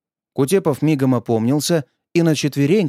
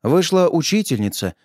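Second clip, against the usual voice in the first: ordinary delivery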